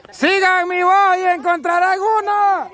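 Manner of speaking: calling out. Real, not acted. Host guiding searchers by voice, calling out.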